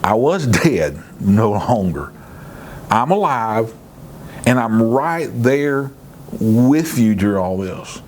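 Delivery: a hint of Jesus speaking with calm authority; lightly voiced, steady and commanding; understated voice of authority; authoritative Jesus. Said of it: "in this authoritative voice".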